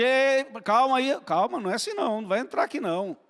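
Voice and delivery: mock stern father holding the son at the door; a hint of a cold, judging father. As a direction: bar the way like a suspicious gatekeeper. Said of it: "O pai não fala assim".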